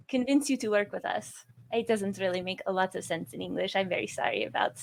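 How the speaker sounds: mildly exasperated explanation, halting as it goes; understated weary apology in character; nearly sighing. Acted. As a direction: explain it patiently, on the edge of a sigh. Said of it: "she's on the edge of a sigh".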